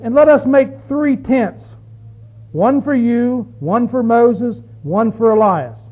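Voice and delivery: slow, drawn-out scripture quote; slow reading. Acted. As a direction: read Peter's offer deliberately. Preacher reads Peter's words slowly.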